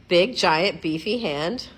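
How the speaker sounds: big booming start on "Big, giant, beefy hand"; mock-monster emphasis. Vlogger repeating the giant-hand gag, big punchy voice.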